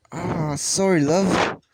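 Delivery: put-on quick English accent on a light apology; sorry love, said the English way; playful English accent for a character. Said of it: "Sorry that I did a Canadian accent".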